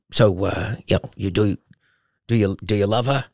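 lightly imitated hesitant father; dad's halting question. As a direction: feel your way haltingly into the question. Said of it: "Like that".

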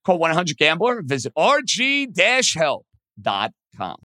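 brisk sponsor read. Acted. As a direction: read the ad copy.

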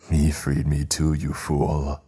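spiteful genie; spat. Acted. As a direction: spit the words out with contempt. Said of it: "spat the djinn".

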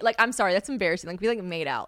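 normal talking voice

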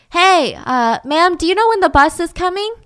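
friendly stranger at a bus stop, lightly voiced; sweet-talking stranger. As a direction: put on a nice-guy charm. Kenny approaches Jane.

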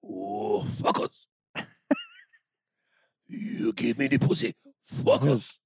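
put-on Asian-accented voice; mock Asian accent. Host joking on the mangled film title, mock Asian accent. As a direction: play it with a caricatured Asian accent. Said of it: "But then it sounds Asian".

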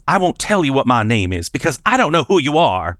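mildly indignant retold refusal; angry tone. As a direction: imitate a cross little girl refusing. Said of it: "in a very angry tone".

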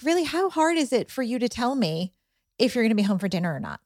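lightly acted parental exasperation; exasperated parent. Parent asking a child about dinner, exasperated.

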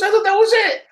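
high, laughing through the line; laughing quote. Retold or imitated. Retelling Bert's surprise, laughing high and loud. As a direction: crack up while quoting him. Laughing while quoting Bert.

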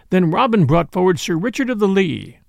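ordinary delivery

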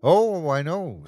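high, swooping mock sympathy; taunting creature. Creature answers the pleading mother, taunting. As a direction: coo it knowingly, like a monster at play.

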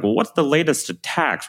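high, put-on voice of a conference attendee; mock asker. Imitating conference crowd asking about attacks, high mock voice. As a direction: toss off the crowd's question in a lightly mocking voice.

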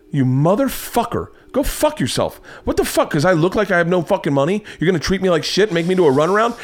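high-pitched indignant rant; retold losing it. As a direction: replay an exasperated outburst, pitch climbing high. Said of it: "I'm, like, starting to lose it".

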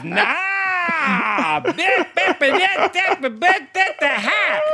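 high, quick Southern jabber, shaking her head; high, fast Southern drawl saying no; Southern lady insisting. Retold or imitated. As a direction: brush off the answer in a thick Southern holler. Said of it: "She goes".

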